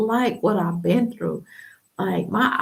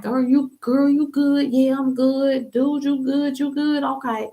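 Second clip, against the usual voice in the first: higher, bright friendly calls; cheerful check-in; 5 semitones higher than usual. Retold or imitated. Friends checking on each other, upbeat and higher. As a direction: greet a girlfriend, lively and high.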